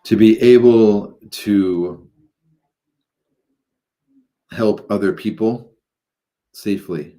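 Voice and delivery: measured, halting guidance into meditation; guided meditation. Acted. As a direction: guide listeners gradually, drawing out phrases and pausing between them.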